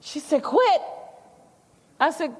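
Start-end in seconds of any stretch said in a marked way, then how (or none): 0.4-0.8 high, sharp disbelieving Quit?; grandma can't believe her ears; grandma repeating the word in disbelief, high and sharp; shocked echo. Retold or imitated.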